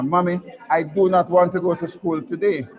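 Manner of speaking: lightly acted plea to stay home; reluctant schoolboy act. Man in bed pleading with his mother, mock-childish reluctance. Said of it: "gentleman who was in his bed and said to his mo-, mother".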